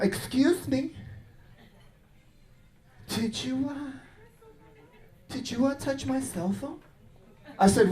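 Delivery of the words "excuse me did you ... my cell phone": put-on prim accusing girlfriend.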